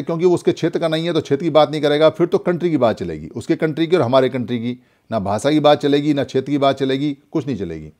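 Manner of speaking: normal talking voice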